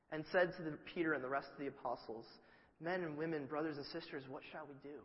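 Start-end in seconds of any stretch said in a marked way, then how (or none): 2.8-5.0 measured scripture reading, dropping away; formal quiet plea. Retold or imitated. Crowd asking Peter, quiet formal scripture tone. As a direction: read "what shall we do" softly and fading. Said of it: "Actually, it was probably more like".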